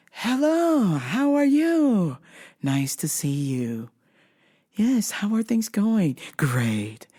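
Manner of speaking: slow, sing-song stiff greeting; imitating a robotically nice wife; robotic polite wife. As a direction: mimic the eerily cheerful neighbor. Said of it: "It's the same response every time".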